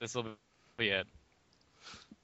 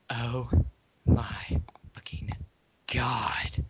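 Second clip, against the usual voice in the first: mock scream; 5 dB louder, much slower than usual. A narrator's reading. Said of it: "I screamed".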